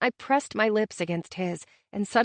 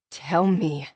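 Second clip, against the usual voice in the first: begging; 4 semitones lower than usual. A narrator's reading. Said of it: "he begged".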